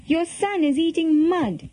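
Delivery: high-pitched children's tale-telling, lightly acted; tattling cry. A narrator's reading. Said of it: "they cried".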